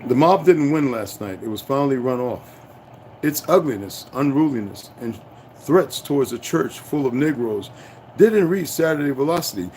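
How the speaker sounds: steady news-report reading; newspaper read aloud. Acted. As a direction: read the old article out like a report. Reads newspaper article aloud.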